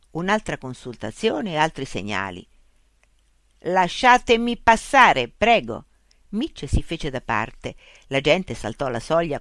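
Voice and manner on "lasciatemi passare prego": slow, loud mechanical reply; robot policeman. A narrator's reading. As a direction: answer like a machine, high and measured. Robot policeman demands to pass.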